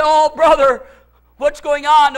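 hearty greeting. Retold or imitated. Pastor answering an estranged friend's call, hearty greeting. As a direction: call out a big hello, retold.

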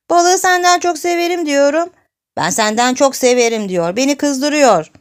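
put-on high, loud childish whine; tearful complaint to mother. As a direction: tattle to mum, acting upset and tearful. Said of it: "Ağlayarak annesinin yanına geldi". (annesine yüksek sesle mızmızlanarak şikayet)

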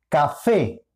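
café with the final fé punched; stress on the last syllable. Shown as a demonstration. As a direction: lean on the fé of café. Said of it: "cuál de los dos lleva la mayor intensidad de sonido". (café con la fuerza de voz en la última sílaba)

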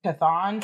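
Chthon said as "kuh-THAHN"; short-o pronunciation. Shown as a demonstration. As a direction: try Chthon with an open "ah", tentatively rising. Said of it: "I'll say Chthon".

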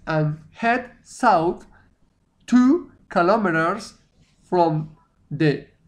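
each word drawn out slowly; slow teacher dictation; slow read-aloud. Shown as a demonstration. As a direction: read the sentence slowly for learners. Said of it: "Bien, entonces".

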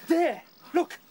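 high, loud, eager discovery; excited calling. Acted. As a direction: shout the answer to everyone.

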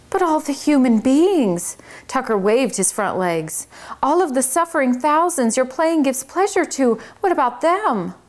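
high, fast-talking fussy little mouse; a busy little manager setting the rules. Acted. Tucker pleads for the fans.

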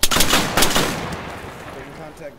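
shouted command. Real, not acted. Calls retreat under fire.

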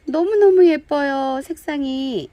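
drawn-out delighted gush. Real, not acted. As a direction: swoon over how pretty it is. Gushing over handmade pots.

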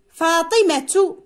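فاطمة drawn out, ending in a clear -tu; final ta sounded. Shown as a demonstration. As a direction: say فاطمة slowly as faatimatu. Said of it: "عندما أقول فاطمة". (نطق فاطمة ببطء مع التاء: فاطمةُ)

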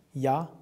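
Ya with a short final vowel; short syllable. Shown as a demonstration. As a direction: keep the A in Ya brief.

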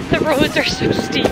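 squeaky, high complaint; high-pitched whine. Real, not acted. Complaining laughing on steep walk.

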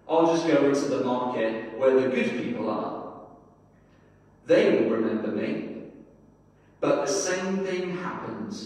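unhurried storytelling read with gentle pauses; story narration. Acted. Preacher reading a story to his congregation, measured storytelling. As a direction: read the tale to the church like a parable.

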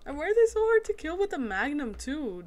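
loud, high frustrated whine; exasperated complaint. Real, not acted. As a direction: protest loudly at the unfair game. Frustrated by hard enemies.

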